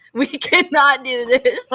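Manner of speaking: slow, laughing insistence on CANNOT; amused retold telling-off, slow and emphatic; laughing mock plea. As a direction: draw it out through a laugh. Retold plea to overfriendly toddler.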